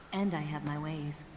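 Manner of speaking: low-key, teasing self-assurance; coy, understated seduction; flirtatious. Acted. Flirting, boasting of her charms.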